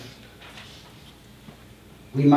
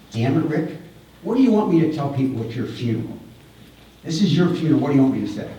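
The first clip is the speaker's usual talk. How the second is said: a touch of retold anger, quick and pressing; 4 semitones higher, faster than usual. Man to his dying friend, mild retold angry pleading. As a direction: press him, half-angry, a bit fast. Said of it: "And I'm angry".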